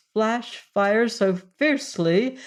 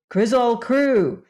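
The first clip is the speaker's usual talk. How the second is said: put-on boy's mild call; 6 semitones higher, 5 dB louder than usual. A narrator's reading. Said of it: "Then Ojo said".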